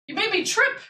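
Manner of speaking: high squeaky mock complaint; mock scolding. Real, not acted. Teasing the cat for tripping her, high baby talk.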